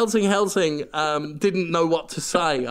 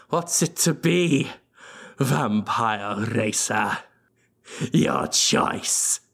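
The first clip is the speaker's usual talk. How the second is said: low ominous vampire; 5 semitones lower than usual. Acted. Voicing the vampire count.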